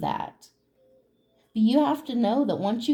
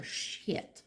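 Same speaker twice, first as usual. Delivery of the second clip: whispered curse; 12 dB quieter than usual. Real, not acted. Catches herself cursing, under her breath.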